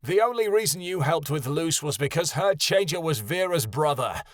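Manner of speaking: heated yelled comeback; yelling back. Acted. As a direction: shout the accusation back. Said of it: "Kyoto yelled back".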